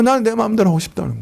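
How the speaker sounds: 높고 빠르게 떼쓰듯; 제멋대로 하겠다는 아이처럼 높고 빠르게; 고집스러운 속마음. Acted. Voicing the heart's selfish wish. (설교자가 교인들에게 이기적 속마음을 높고 빠르게 흉내 내며)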